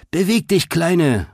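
high-pitched, hurried order; urgent call. A narrator's reading. Boar racing past the girl, calling out urgently. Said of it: "rief Greta".

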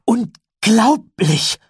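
laut, hoch, stark gedehnt; aufgeregt. A narrator's reading. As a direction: jubel es begeistert heraus. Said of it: "Tyler hüpfte aufgeregt". (begeistert gedehnter Ausruf)

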